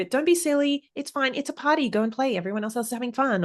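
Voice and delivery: mock a parent waving off a child's worry; imitating a dismissive parent.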